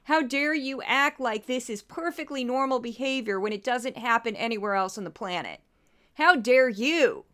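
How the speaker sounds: sarcastic imitation of pious indignation; mocking feigned outrage. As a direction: parody their fake outrage, slightly hammed-up. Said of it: "I don't buy your feigned outrage".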